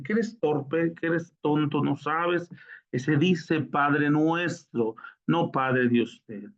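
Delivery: retold anger. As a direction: imitate a man losing patience, slowing to correct. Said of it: "ya muy enojado".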